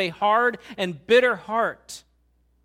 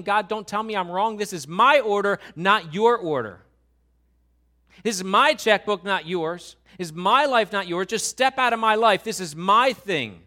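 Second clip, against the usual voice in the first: louder, hammering each my; angry defiance; 6 dB louder than usual. Acted. Cain defying God, angry and louder. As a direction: defiantly claim it all as his own. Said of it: "He's so angry with God".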